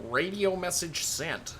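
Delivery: slow, mimicked German radio operator; mock German accent. Captain parroting his radio operator's report, mock German accent. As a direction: imitate a bad German accent, drawn out. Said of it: "That's the worst German accent ever".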